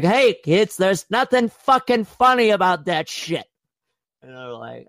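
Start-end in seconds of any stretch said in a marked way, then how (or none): 0.0-3.4 scolding teacher. Retold or imitated. Teacher scolding laughing kids, high mock anger. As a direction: scold the class like a fed-up teacher. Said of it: "they're like".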